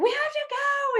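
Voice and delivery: stressed daughter. Retold or imitated. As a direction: imitate an impatient sister hurrying everyone. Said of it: "And my daughter's like".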